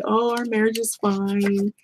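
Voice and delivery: slow, drawn-out fake reassurance; put-on everything's-fine voice; mock assurance. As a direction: lightly mimic someone insisting all is well. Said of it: "And then some people lie".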